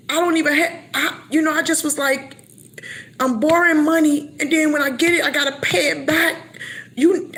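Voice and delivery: venting frustration at God; mock angry. Believer retelling how she scolded God, heated.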